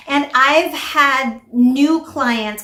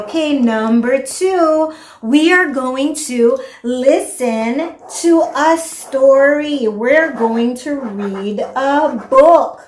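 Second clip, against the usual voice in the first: put-on slow, louder, talking to a toddler; sing-song teacher voice; 2 semitones higher, 3 dB louder, slower than usual. Shown as a demonstration. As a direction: spell it out slowly for a child. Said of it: "you can say".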